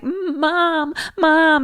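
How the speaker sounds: high-pitched panicked calling; imitating a frantic cry; retold freaking out. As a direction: call for Mom in mock panic. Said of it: "he's just freaking out".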